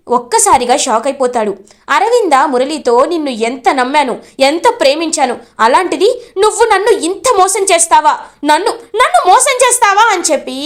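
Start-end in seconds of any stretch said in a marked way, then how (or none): 3.0-10.0 angry outburst. Acted. Wife accusing her husband of betrayal, building anger. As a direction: climb into a furious, betrayed accusation. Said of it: "గట్టి గట్టిగా అరుస్తూ చాలా కోపంగా".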